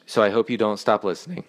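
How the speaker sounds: choked-up plea with a crack at the end; hammed-up emotional voice break. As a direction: let the voice crack, mock choked up. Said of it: "That's why my voice broke like that".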